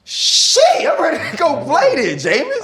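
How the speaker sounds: high-pitched, excited cry; real hyped outburst. Real, not acted. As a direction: burst out fired up, voice leaping way up. Fired up by the speech.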